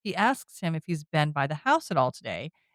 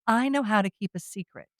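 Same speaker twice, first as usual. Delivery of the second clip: imitating a cryptic hint; mysterious; 3 semitones higher, 3 dB quieter than usual. Taylor hints to Mina about a secret, retold mysteriously. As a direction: deliver it as a lightly mysterious aside. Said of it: "he mysteriously says".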